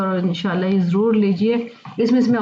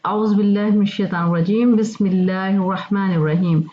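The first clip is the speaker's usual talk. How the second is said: recited demo. Shown as a demonstration. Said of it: "देखें जी".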